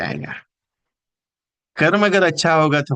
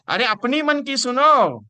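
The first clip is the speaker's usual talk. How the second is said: higher-pitched, drawn-out urging cry; emphatic exhortation; 10 semitones higher, 4 dB louder, slower than usual. Real, not acted. Speaker urging agents to trust their own heart, emphatic exhortation. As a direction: plead slowly and high, stretching the words.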